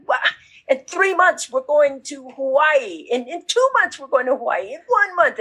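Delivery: rising anticipation for the trip; mildly excited countdown; building excitement. Pretend. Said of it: "You're so excited".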